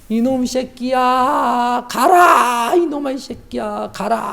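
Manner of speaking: high, drawn-out retold wail of anger; angry mother. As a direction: cry out high, like a mother scolding her son in fury. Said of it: "막 화를 내시면서". (화난 어머니처럼 높고 길게 울부짖으며)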